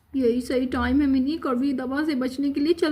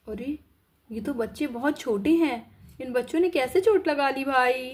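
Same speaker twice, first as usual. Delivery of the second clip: doctor voice; 3 semitones lower than usual. Acted. Doctor reacts to the small injured children, concerned and lower.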